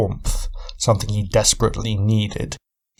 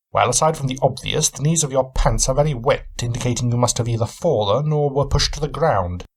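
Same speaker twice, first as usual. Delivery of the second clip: a hint of a keen, probing detective; Sherlock Holmes; 3 semitones higher than usual. Cabin owner sizing up his guest, lightly voiced shrewd questioning.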